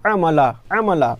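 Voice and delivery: আমালা said slowly as one joined word, a-ma-la; blended syllables, slow. Shown as a demonstration. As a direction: read আমালা slowly, joining each syllable. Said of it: "লাম জবর লা".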